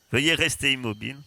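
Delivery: metallic drone announcement; robot voice. Acted. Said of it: "Vous entendez une voix métallique".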